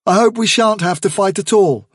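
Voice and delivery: put-on young leader addressing the warren; Hazel's calm resolve. Hazel voiced.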